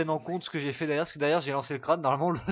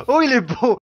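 excited; 8 semitones higher, 11 dB louder than usual. Acted. Repeats exclamation, put-on voice.

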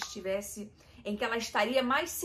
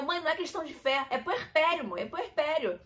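exasperated retort; 7 semitones higher, 6 dB louder than usual. Retold or imitated. Retells arguing back at mother.

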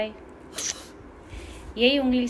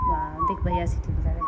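excited; 4 dB louder than usual. Real, not acted. Excited at whistle.

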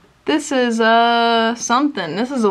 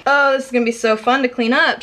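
quick, sarcastic mock enthusiasm; faster than usual. Real, not acted. Vlogger dreading the makeup clean-up, sarcastic. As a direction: say it sarcastically, as if looking forward to it. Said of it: "She said so sarcastically".

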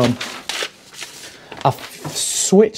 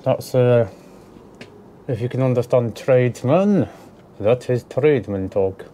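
talking with screws in mouth; words round a mouthful of screws; mouth full. Real, not acted. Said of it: "I've got two screws in my mouth".

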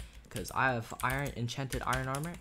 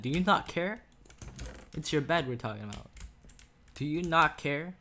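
exasperated; 4 semitones higher, 4 dB louder than usual. Real, not acted. Scolding a teammate.

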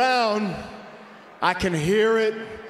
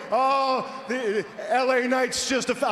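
muddy boomy voice; 3 semitones higher than usual. Shown as a demonstration. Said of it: "I have too much bass in my voice".

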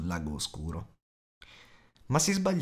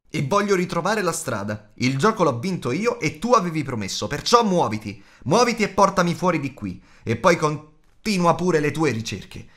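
loud, higher, insistent demand; grido insistente; 6 semitones higher, 5 dB louder than usual. A narrator's reading. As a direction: shout your claim and order them to move. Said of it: "gridò Bilbo". (protesta gridata, forte e perentoria)

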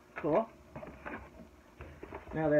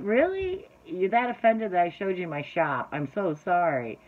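mock-apologize to the offended, pushed a bit loud; sarcastic disbelief; 2 semitones higher, 4 dB louder than usual. Real, not acted. Vlogger to viewers who left over shop video, sarcastic.

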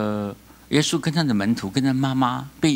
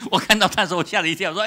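laughing; 5 semitones higher, much faster than usual. Real, not acted. Laughing through the story.

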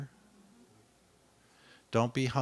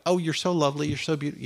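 high, gushing mock flattery; mocking a people pleaser who gushes; sugary flattery; 4 semitones higher, faster than usual. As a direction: coo the compliments sweetly. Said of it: "this way to everybody".

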